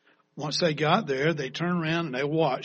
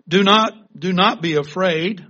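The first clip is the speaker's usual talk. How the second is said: Moses calling out loud and high to a frightened people; Moses' loud command; 3 semitones higher, 9 dB louder than usual. Acted. Moses to the fearful Israelites, a loud ringing command. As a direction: ring it out like a leader over a crowd. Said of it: "And Moses said to the people".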